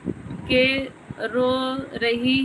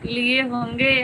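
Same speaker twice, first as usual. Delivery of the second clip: normal talking voice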